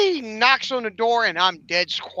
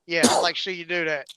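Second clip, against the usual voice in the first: put-on smartass kids; 4 semitones lower, 4 dB quieter, faster than usual. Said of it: "my kids are sheer smartasses, they're like".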